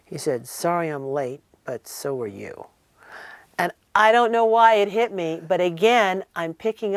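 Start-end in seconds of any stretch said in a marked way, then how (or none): 0.5-2.7 lightly imitated deadpan joke, dropping low at the end; Elvis. Elvis teasing his late date, lightly imitated deadpan. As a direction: let the punchline fall low and soft. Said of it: "the way in which he said it was funny".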